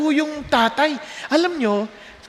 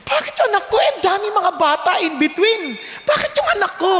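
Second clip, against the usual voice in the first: surprised; 6 semitones higher, faster than usual. Retold or imitated. Father puzzled why his son.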